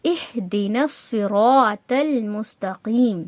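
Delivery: slow, careful Quranic articulation; tajweed example. Shown as a demonstration. Teacher showing an example verse, slowly articulated. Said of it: "اس کا example دیکھتے ہیں".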